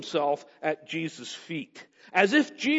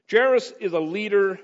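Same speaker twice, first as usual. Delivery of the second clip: "leader" said firmly and louder; emphatic weight on "leader"; stress on leader; 3 semitones higher, 4 dB louder than usual. Real, not acted. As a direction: lean on the word "leader". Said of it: "I want to emphasize the word there".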